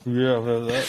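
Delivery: imitated drunken mumble; mumbling. Shown as a demonstration. Showing a co-host how a drunk talks, mumbling. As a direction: slur it as if the mouth won't quite open. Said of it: "like, mumble".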